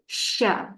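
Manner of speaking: drawn sh at the start of "sya"; shin sound. Shown as a demonstration. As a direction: lift mid-tongue for a long hushing "sya". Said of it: "dia akan naik sendiri".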